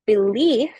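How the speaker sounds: "Belief" with a light first syllable, stressed second. Shown as a demonstration. Lecturer showing students word stress, second syllable of "Belief" stressed. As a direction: lean on the LIEF of "Belief". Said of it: "has the stress on the second syllable".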